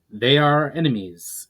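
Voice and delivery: insistent. A narrator's reading. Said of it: "insisted Damus".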